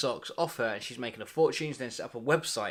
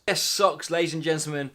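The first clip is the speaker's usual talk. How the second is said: louder, like a ringmaster; showman announcement; 2 semitones higher, 4 dB louder than usual. Acted. Presenting socks to the audience, showman style. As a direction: proclaim it to the crowd. Announcer proclamation after whisper.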